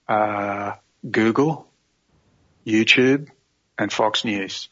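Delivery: deadpan list with long pauses between items; restrained sarcasm. Retold or imitated. Answering the officer's question about sources, sarcasm held in. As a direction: hold the sarcasm back, item by item. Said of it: "I had to not be really sarcastic".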